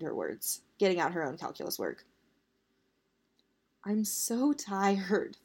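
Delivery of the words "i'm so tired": slow, drawn-out mild whine; whining. Acted. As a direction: drag the words out tiredly. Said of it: "Victoire whined".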